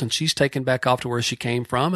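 ordinary delivery

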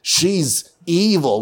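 mock-outraged hero voice; grumpy Goliath. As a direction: drag it out like a sulky bigot. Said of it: "He's like".

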